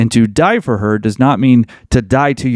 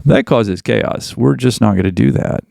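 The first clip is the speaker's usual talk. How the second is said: calm authority. Retold or imitated.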